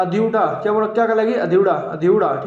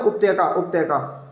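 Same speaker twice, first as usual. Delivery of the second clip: slow drill; 4 semitones lower, slower than usual. Shown as a demonstration. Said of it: "क्या बोलते हैं?".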